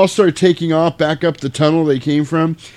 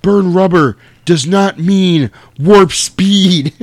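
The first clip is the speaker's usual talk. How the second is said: high, loud, slow nerd voice; a hammed-up prissy scolding; nerdy scold; 6 semitones higher, 6 dB louder, slower than usual. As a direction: spell it out like an indignant nerd. Sam scolds after the near crash.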